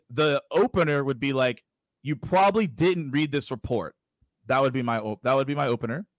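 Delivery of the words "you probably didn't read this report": slow, measured dictation. Shown as a demonstration. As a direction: say the opener slowly, word by word. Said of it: "So I'll slow it down".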